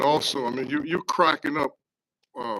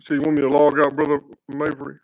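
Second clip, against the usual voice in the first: raised voice across the room; calling out; 9 dB louder than usual. Real, not acted. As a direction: call out to be heard.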